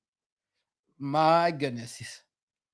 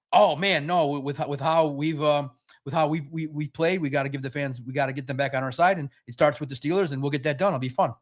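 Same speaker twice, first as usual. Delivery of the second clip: low, monotone robot press voice; 4 semitones lower than usual. Retold or imitated. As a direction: drone it like a robot. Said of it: "talks to the media like a robot".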